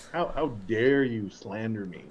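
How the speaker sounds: slow mock outrage; mock offended. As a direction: pretend to be deeply insulted, slowly.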